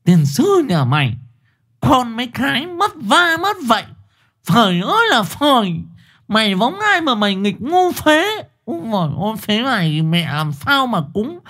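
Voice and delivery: high, mushy scolding through swollen lips; swollen-lipped scolding. Acted. Mother with a bee-stung mouth scolding her son, high and slurred. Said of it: "Nghe cô chửi nó lạ lắm".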